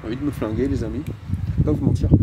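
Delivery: talking through a face mask; muffled speech behind a mask. Real, not acted. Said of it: "j'ai le masque sur moi".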